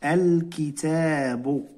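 الكتاب said slowly, al-ki-taa-bu, every syllable clear; slow repeat. Shown as a demonstration. Teacher repeating the word for pupils, slow. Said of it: "إذا لاحظوا معي الكتاب".

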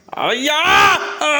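high, sudden shouted yelp; cry of pain. Real, not acted. Parent bitten by the child, cries out in pain. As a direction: yell out high from a sudden bite.

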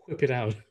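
"whip" starting on an airy "hw"; modeled WH in whip. Shown as a demonstration. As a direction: blow into the start of "whip", then finish plainly. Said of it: "I can't pronounce it like that".

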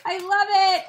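laughing to tears. Real, not acted. Laughing so hard it sounds like crying.

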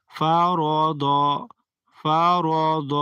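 ফা light, র and দ full and heavy; মোটা করে পড়া; recitation demo. Shown as a demonstration. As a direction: say ফা র দ with thin ফা then heavy র দ. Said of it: "মোটা করে পড়তে হবে".

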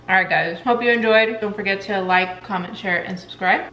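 talking with a mouthful; words round a bite of scone; mouth full. Real, not acted. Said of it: "I'm talking with a mouthful".

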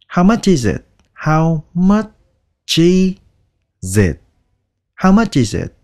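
quick, linked "how much is it"; fast version. Shown as a demonstration. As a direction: rattle it off like a native. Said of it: "Các bạn đọc nhanh là". (đọc nhanh, nối âm)

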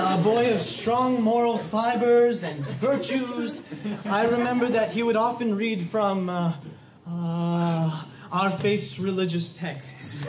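slow, sermonizing priest act; drawn-out, pompous church-leader bluff; Father Flaherty. Pretend. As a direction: pretend clergyman improvising solemnly. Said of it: "This is Father Flaherty".

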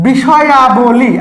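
বিষয়াবলী said slowly, stretching the আবলি ending; slow teacher's pronunciation of বিষয়াবলী; drawn-out demonstration. Shown as a demonstration. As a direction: sound out বিষয়াবলী slowly for learners. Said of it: "আবলির উচ্চারণ করছি".

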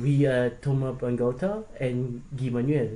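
hesitant, badly faked French accent; clumsy attempt at sounding French. Masked performer posing as the band to a fan, bad French accent. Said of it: "My French accent sucks".

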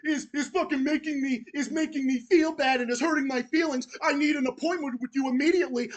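mocking a crybaby complaining to a therapist; mock whiny caller. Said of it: "go call your fucking therapist saying".

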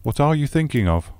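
astonished. Acted. Host astonished at the plan.

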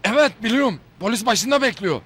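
Faruk emmi impression. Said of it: "yaparım Faruk emminin taklidini".

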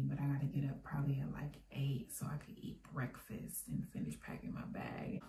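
whispering, roommate asleep; quiet at night. Real, not acted. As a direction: hush so the roommate sleeps. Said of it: "'cause I'm whispering".

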